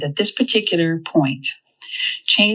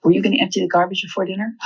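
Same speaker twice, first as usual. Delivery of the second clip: casual asking; 3 semitones higher, faster than usual. Acted. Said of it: "Or I can say".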